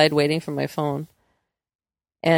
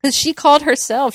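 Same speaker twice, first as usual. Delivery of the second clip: amused disbelief; 8 semitones higher, 5 dB louder than usual. Real, not acted. Punchline of the story.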